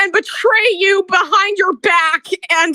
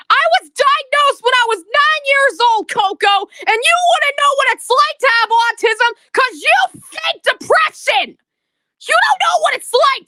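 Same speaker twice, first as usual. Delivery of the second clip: raised, heated ranting; angry rant; 5 semitones higher than usual. Real, not acted.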